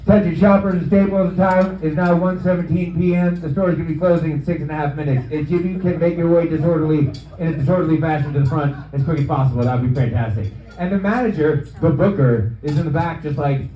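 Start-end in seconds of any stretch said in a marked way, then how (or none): 0.1-10.5 store PA announcement voice; deadpan loudspeaker shopper announcement; flat echoey PA page. Acted. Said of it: "making store announcements".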